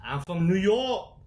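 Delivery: drawn-out New York accent demo; slow, showy New York accent. Shown as a demonstration. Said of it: "That's the accent".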